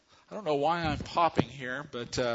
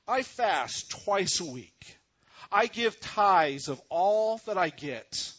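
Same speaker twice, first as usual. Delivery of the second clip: louder, self-satisfied boasting prayer; proud Pharisee; 3 dB louder than usual. Acted. Pharisee praying in the temple, lightly pompous. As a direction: pray it like you're showing off to God.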